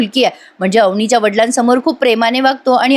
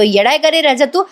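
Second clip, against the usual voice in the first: lightly voiced angry reprimand; scolding; 2 semitones higher than usual. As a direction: tell off a brother, understated. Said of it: "राजाला ओरडून म्हणतो".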